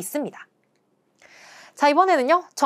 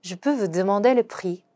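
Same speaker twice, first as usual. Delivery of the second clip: slow French, stress on "peux"; careful teaching read; slow demo pronunciation; much slower than usual. Shown as a demonstration. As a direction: model it slowly. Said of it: "발음해보죠".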